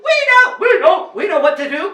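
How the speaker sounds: fast, high, eager shouting; crowd's cry. A narrator's reading. Everyone in the kingdom volunteering, excited shouting. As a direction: clamour like a whole kingdom. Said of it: "cried everyone in the kingdom".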